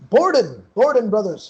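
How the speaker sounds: Borden said loud and firm, stress on the first syllable; correcting the name. Shown as a demonstration. Correcting the player's mispronounced name, firmly. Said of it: "Bowen brothers?".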